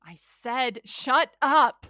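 loud shout of shut up; furious scream. Acted. Girl screaming at her double to shut up. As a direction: scream to make the voice stop.

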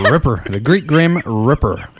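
Reaper said as "Ripper" with a short i. Shown as a demonstration. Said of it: "It comes out as ripper".

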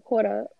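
"Quarter" repeated, the final R weak; trying the R. Shown as a demonstration. Repeating the test word, R still weak. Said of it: "give me another word".

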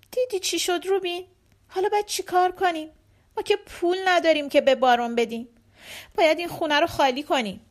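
a touch of crying in the plea; mildly tearful. Acted. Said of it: "مادر قازها گریه کنان".

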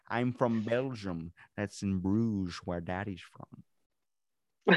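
very slow, drawn-out put-on accent; movie villain impression. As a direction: stretch each phrase in a villain's accent. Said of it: "I try and practice the, uh, voices".

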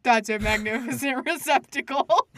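slow, laughing mock troll; dopey cartoon bellow, laughing. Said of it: "he'd look at it and be like".

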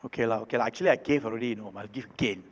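grudging, muttered low and soft under the breath; mock grudging giver mumbling; grudging mumble. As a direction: sound like a reluctant giver, lah. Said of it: "Don't say".

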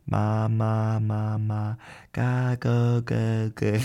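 put-on babbling like a baby. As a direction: repeat the syllables like an infant. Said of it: "they do a lot of that themselves".

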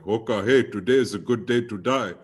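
lightly voiced chief, mock solemn; a hint of a solemn old chief; Native American chief impression. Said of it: "I do impressions".

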